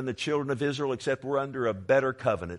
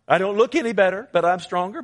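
preaching shout; 9 semitones higher, 10 dB louder than usual. Real, not acted.

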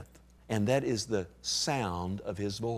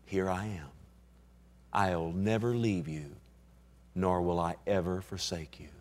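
gentle whisper-soft; 6 semitones lower, 6 dB quieter than usual. Acted. Preacher voicing the Lord's soft reassurance to a believer. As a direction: speak it softly as the Lord comforting. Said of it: "the Lord whispers to you".

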